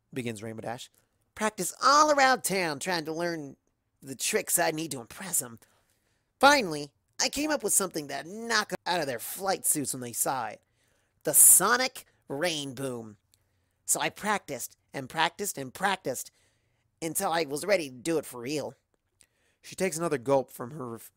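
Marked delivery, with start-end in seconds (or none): 1.3-5.6 cocky tomboy voice; brash wisecrack; Rainbow Dash. Acted. Rainbow Dash tells her story. 6.4-6.9 loud, high triumph; triumphant. Acted. Rainbow Dash triumphant. 7.2-18.8 cocky tomboy voice; brash wisecrack; Rainbow Dash. Acted. Rainbow Dash tells her story.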